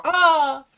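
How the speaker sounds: a big high whoop that breaks into a laugh; laughing yell. Pretend. Streamer ends the reread with a laughing whoop. Laughing flourish after reading.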